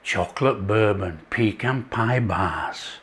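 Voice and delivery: hammed-up Southern hospitality accent. Host greets viewers in a light mock Southern accent. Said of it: "that's enough of the Southern accent".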